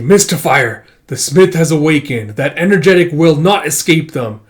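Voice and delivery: loud, commanding announcement; loud proclamation. Acted. A warrior reports to the Mystifier, proclaiming loudly. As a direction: proclaim it across a battlefield.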